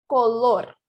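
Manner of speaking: "color" with a single tapped R; slow model of "color"; Spanish tapped R. Shown as a demonstration. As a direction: flick the tongue once on the R in "color". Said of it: "tenta fazer mais uma vez".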